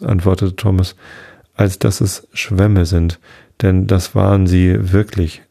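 ruhige Vorleserstimme für ein Märchen; erzähl es wie eine alte Sage am Abend; Märchen vorlesen. A narrator's reading. Märchen vorgelesen. (ein Märchen gemächlich vorgelesen)

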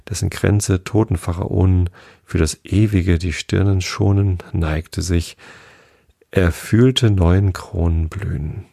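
measured, solemn poem recital; poem reading. Acted. Reader reciting the Rilke of the week, solemn poem voice. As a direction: let each line hang like a verse.

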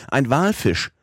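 high, falling call of Walfisch; excited cry. A narrator's reading. Professor spots a whale, excited high call. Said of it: "rief darauf der Professor".

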